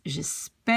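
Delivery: "j'espère" with a long open eh. Shown as a demonstration. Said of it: "the sound changes when you".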